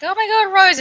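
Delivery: high-pitched acted squeal of recognition; excited greeting. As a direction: call out the name in put-on excitement, high. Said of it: "and are like".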